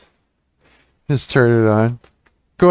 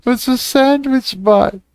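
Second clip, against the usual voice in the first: incredulous; 11 semitones higher than usual. Real, not acted. High incredulous question.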